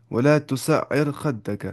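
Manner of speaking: "ولا تسعر خدک" recited very slowly with a light, thin ر. Shown as a demonstration. Teacher recites "ولا تسعر خدک" to show the thin ra, slow. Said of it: "را باریک ہو جائے گی".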